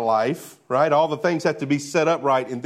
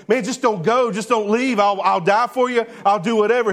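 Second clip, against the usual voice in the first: pleading Peter; 6 semitones higher, 3 dB louder than usual. Acted. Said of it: "as Peter's going".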